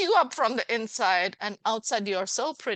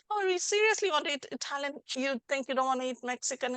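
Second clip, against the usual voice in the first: doubting friend; 5 semitones higher, faster than usual. Retold or imitated. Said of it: "no one says, like".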